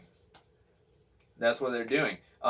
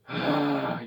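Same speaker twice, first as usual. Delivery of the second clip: tired sigh. Shown as a demonstration. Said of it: "you're just tired to heck and back".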